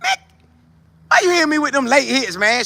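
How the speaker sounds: whining about late hits, hammed up; half-joking complaint to the refs; mock complaint. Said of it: "I would think he would say".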